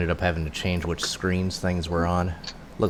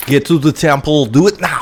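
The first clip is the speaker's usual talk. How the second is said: urgent command; 8 semitones higher, 10 dB louder than usual. Acted.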